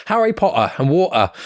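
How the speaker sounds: "Potter" and "water" with the T's left out; dropped T's. Shown as a demonstration. Southern British man showing his "Potter" and "water", T's dropped. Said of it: "can't pronounce his T's".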